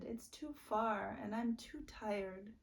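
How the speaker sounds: whispered tired plea; whispering. Acted. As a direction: whisper it, worn out. Crying child, whispered.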